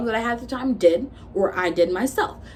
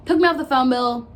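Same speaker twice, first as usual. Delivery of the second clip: louder and higher, disbelieving; indignant repeat; 5 semitones higher, 5 dB louder than usual. Real, not acted. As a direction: spit it back out in outrage. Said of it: "repeats it louder".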